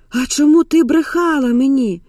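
high-pitched reproach to mother; hurt accusation. Acted. Дочь обвиняет мать во лжи.

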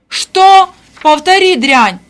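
high, loud furious yell; enraged shout. A narrator's reading. Stepmother hears the accusation, outraged shout. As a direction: explode in outrage.

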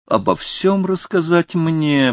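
high, slow, shocked exclamation; the king cries out, scandalised, pitched high; shocked outcry. A narrator's reading. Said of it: "вскричал Людовик тринадцатый".

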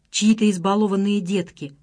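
usual speaking voice

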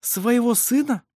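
high, slow questioning; incredulous challenge. A narrator's reading. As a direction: draw out the question in disbelief. Midwife challenges the mother in disbelief.

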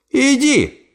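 high abrupt shout; staccato. Acted. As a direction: snap out the order. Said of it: "крикнула она".

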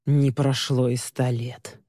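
slow, bored groan; exasperated moan; weary moan. Acted. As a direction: sigh it out, long overdue. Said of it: "простонала она".

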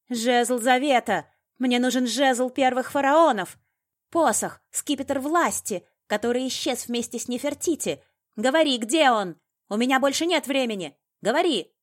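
high, loud, raging shouts; furious, hammering high-pitched tirade; frenzied demand. A narrator's reading. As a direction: scream the demands like one losing control. Frenzied woman demands staff at gunpoint.

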